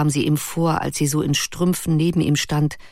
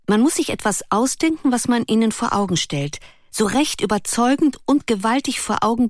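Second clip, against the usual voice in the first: put-on higher, eager young girl's voice; girlish Ruth; 5 semitones higher than usual. Ruth eagerly explains her idea to Erik, higher girlish voice. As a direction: lift into the lively girl's voice.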